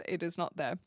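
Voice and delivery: ordinary delivery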